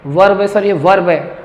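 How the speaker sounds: वर्ब with the R sounded, "varb"; pupils' wrong pronunciation. Retold or imitated. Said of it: "कई बच्चे क्या पढ़ते हैं?". (वर्ब में र बोलता बच्चा)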